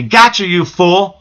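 slow, lightly voiced demon taunt; a hint of demonic gloating; mocking demon. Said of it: "he was laughing at me".

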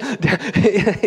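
stuttering imitation of an ugly cry; hammed-up hiccupy crying noise; mock sobbing. Preacher imitating crying little kids, mock sobbing. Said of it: "you've seen it with little kids".

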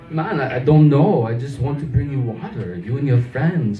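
lightly put-on Swedish accent, pleading innocence; hint of a hammed-up Swedish accent. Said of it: "stayed in character as the Swedish guy".

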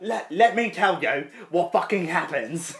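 slow, put-on British accent. About to reveal the after-credits scene, mock British accent. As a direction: spell it out slowly in mock British. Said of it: "my shitty British little accent".

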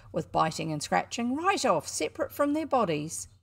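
high, loud showman patter; a cocky boy hawking his show; boy barker at a penny show. Acted. Showman hyping the wildcat.

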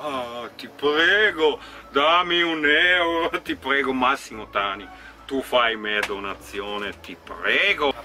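slow, pleading beggar voice; mock beggar. Mocking the hater by playing a pleading beggar. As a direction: beg for coins, hammed-up. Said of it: "guarda come ti sei ridotto".

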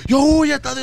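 high imitated warning shout; retold cry to flee. Daughter urging Tadeo to escape, high call. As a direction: call it high, replaying the alarm.

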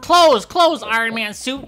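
commanding shout. Pretend. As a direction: order the suit shut. Commanding suit to close.

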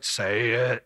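mock a thundering voice from heaven; audible voice of God. Shown as a demonstration. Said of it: "wasn't like this audible voice".

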